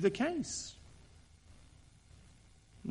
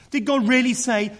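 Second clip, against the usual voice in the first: higher and louder, "God" leaned on, then falling; exaggerated mock disbelief; 8 semitones higher, 6 dB louder than usual. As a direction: overplay the disbelief in "Did God really say". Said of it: "Notice the exaggeration".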